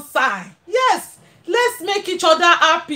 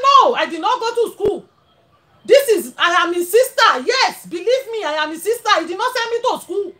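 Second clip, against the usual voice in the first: pretend sister; 4 semitones higher than usual. To her brother, pretending she can't speak English, higher pleading voice. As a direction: play the sister who never learned English.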